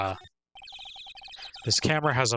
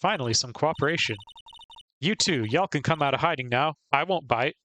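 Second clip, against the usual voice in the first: Southern woman scolding; 3 semitones higher than usual. Acted. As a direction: chew them out like a country gal. Friendly Southern photographer.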